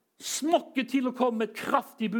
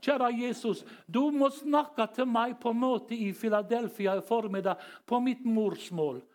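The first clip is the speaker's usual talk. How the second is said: imitating refugee prayer; slower than usual. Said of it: "evne til å etterligne folk".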